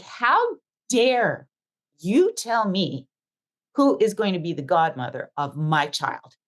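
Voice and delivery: retold outrage, slow and emphatic; indignant outburst. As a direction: lose it on him, drawing out each phrase. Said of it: "And I lost it on him".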